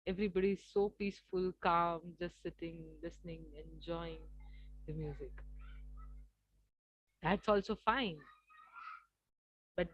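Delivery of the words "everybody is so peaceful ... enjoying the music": soft and low, settling into calm; hushed, peaceful. Retold or imitated. Coach describing a ghazal audience sitting listening, peaceful and hushed. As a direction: let it sink to a gentle hush.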